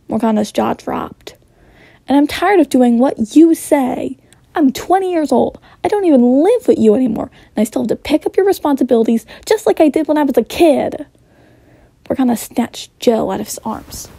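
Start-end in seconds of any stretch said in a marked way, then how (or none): 2.1-11.1 louder, fast, higher rant; angry outburst. Acted. Son ranting at his controlling mother, fast and loud. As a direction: let it all spill out fast and hot.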